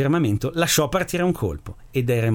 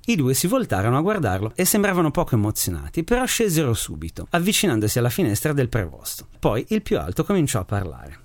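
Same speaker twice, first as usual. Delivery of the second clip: measured, even storyteller's reading; story narration. A narrator's reading. Radio host reads a short story to listeners, calm narration. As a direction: read the tale calmly to radio listeners.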